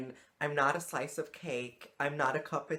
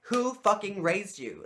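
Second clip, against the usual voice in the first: high, loud and slow, who raised you; outraged; 7 semitones higher, 6 dB louder, slower than usual. Real, not acted. To the crude stranger, an outraged, slow, loud rebuke. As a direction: drag each word out in disgust.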